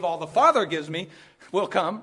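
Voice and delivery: "will" pressed hard before "come"; stress on will. Shown as a demonstration. Preacher pointing his flock at the word "will". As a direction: lean on "will" so the promise lands. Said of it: "This is the emphasis right there".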